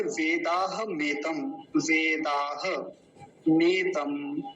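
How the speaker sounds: वेदाह मेतम in slow, long-vowelled syllables; pronunciation demo. Shown as a demonstration. Teacher showing students how the mantra is pronounced, slow careful demo. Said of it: "उच्चारण के विषय में आपको बता".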